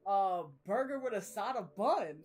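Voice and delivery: slow, drawn-out comic imitation; playfully stretched-out quote; funny character voice. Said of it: "funny how she talked about it".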